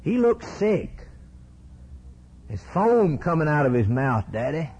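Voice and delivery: high retold child's report; alarmed boy. Boy describes sick dog to Daddy, mildly alarmed child voice. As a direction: lightly act a boy alerting his father. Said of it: "Ralph said".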